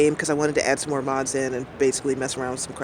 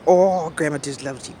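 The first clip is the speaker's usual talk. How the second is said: doggy voice. Retold or imitated. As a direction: coo it like you're talking to a good boy. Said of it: "I'm doing my doggy voice".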